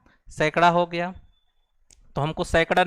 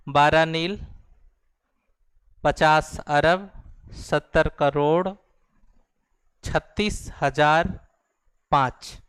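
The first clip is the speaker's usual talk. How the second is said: slow model reading. Shown as a demonstration. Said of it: "फिर से देखिए".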